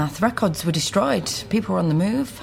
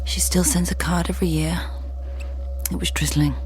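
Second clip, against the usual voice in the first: hushed inner monologue. Acted. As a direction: let the thoughts drift out under the breath. Inner monologue over the phone call.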